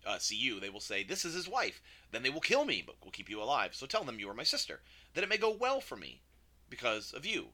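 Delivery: reading a Bible story aloud; quick scripture reading. Real, not acted. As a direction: read the passage through briskly, lifting the quoted speeches. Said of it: "I'm gonna read through this really quickly".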